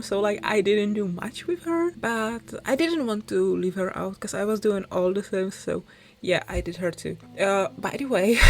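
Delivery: talking around a mint candy; words slightly blurred by a candy in the mouth; mouth full. Real, not acted. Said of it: "I have a candy in my mouth".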